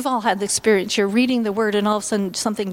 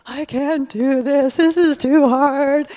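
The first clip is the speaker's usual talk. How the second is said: retold crying despair; 3 semitones higher, 5 dB louder, slower than usual. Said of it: "I would cry every day".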